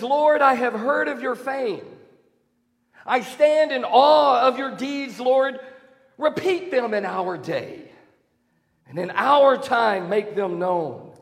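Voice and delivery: preaching the verse with reverent force; prayerful reading. Acted. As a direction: lift the scripture up in awe.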